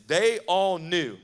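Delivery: slow, weighty "they all knew"; slow emphasis. Shown as a demonstration. Preacher reading scripture so the crowd repeats it, slow emphasis. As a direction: stretch every word of "they all knew". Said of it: "Say that with me".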